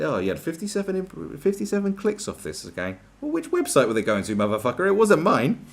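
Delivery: rising to an angry shout at the end; building from mock chat to a furious yell; retold customer blowup, ending in a real-sounding shout; annoyed rant. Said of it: "Sorry, I got a bit annoyed about that".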